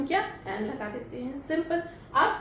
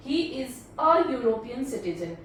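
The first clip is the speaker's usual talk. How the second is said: very slow, word by word; slow dictation; 2 semitones lower, much slower than usual. Shown as a demonstration. Teacher reading the answer slowly to students. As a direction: read it out slowly for the class. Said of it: "एक बार देख लेते हैं सारे sentence अच्छे से".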